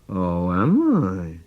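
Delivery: dad pretends to threaten his teasing son; mock menacing dad. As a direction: growl it as a pretend monster dad. Dad answers son's taunt.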